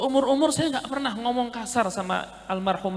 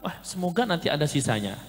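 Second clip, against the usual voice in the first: hopeful murmur; 6 semitones lower, 6 dB quieter than usual. Retold or imitated.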